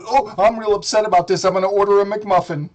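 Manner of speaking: mock Hussy voice. Mocking Hussy's reaction, sneering mock voice. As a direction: play him as a smug fool.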